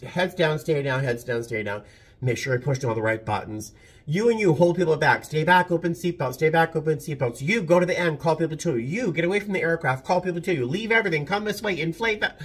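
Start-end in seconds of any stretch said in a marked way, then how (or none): 0.1-1.8 recited emergency commands; drill commands. Shown as a demonstration. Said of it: "One of them used to be". 4.1-12.4 shouted drill commands. Shown as a demonstration. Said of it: "One of them used to be".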